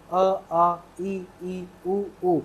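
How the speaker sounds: short अ, long आ, short ई then long ई; teacher models Hindi vowel lengths; vowel recitation. Shown as a demonstration. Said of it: "इनको जो बोला जाता है इनको याद रखिएगा".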